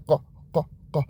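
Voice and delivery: quiet uvular قا, repeated; qaf drill. Shown as a demonstration. Teacher modelling قاف quietly for kids. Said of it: "حرف قاف هم خوب تلفظ کنیم".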